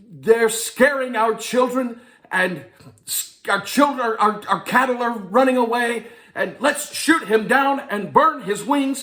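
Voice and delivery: bad Amish accent. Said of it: "I had no idea how to do a Amish accent".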